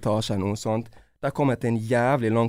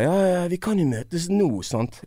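teasing quote; 5 semitones higher than usual. Retold or imitated. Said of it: "Litt sånn på kødd".

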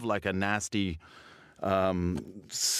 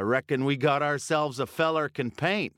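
put-on rural working-class accent. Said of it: "so I have to adopt another one".

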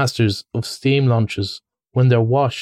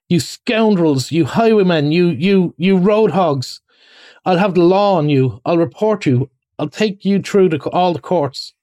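the rat shakes both fists and rages; furious ranting; 6 semitones higher than usual. A narrator's reading. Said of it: "he shouted".

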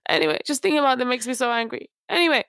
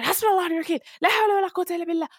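rushed protective dua; 8 semitones higher, much faster than usual. Retold or imitated. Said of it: "I was like, going".

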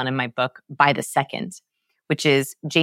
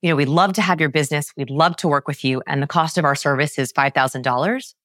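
sales pitch ending with DOLLARS rising like a question; asking the number. Retold or imitated. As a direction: pitch the service, then lift DOLLARS as if asking. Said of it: "ask their number".

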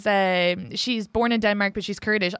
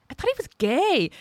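retold surprise; 5 semitones higher than usual. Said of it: "they're like".

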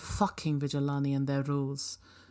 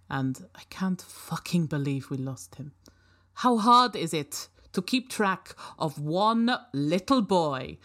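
angry outburst; 4 dB louder than usual. Acted. Angry recorded voice of Fakiri.

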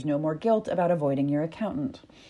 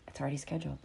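calm reply; 3 semitones lower, 11 dB quieter, much faster than usual. Acted. Calm answer to panic.

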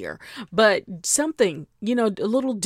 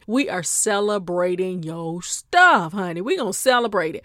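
auntie hype; 3 dB louder than usual. Acted. Auntie cheering a friend's celebration at dinner. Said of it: "auntie thing".

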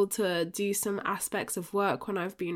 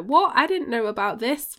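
surprised listener; 3 semitones higher, 4 dB louder than usual. Retold or imitated. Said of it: "you're like".

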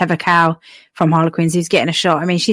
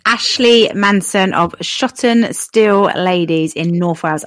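slow grand announcement; slower than usual. Acted. Drum roll.

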